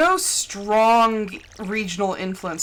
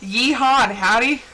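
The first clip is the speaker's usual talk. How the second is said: southern twang; 4 dB louder than usual. Pretend. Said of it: "slight twist of a southern accent".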